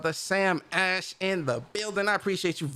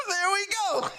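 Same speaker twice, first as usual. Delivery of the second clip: gleeful; 13 semitones higher than usual. Acted. Still in the put-on high voice.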